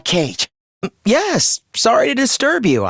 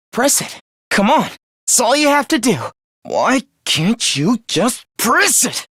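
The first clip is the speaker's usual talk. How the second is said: desperate urging; 4 semitones higher than usual. Acted. Urging someone desperately to press it.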